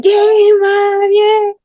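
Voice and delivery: high, loud drawn-out cheer; imitated screaming. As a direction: scream it like kids cheering on their mom.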